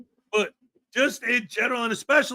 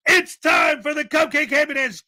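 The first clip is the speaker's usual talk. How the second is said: hype announcer shout; 4 semitones higher, 4 dB louder than usual. Pretend. Hyped announcement of the dance.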